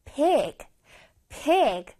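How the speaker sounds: "pig" with a clearly sounded I; distinct vowel. Shown as a demonstration. Teacher showing children a clear I in "pig". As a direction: make the i in "pig" stand out. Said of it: "뚜렷하게 발음을 해줘야 돼".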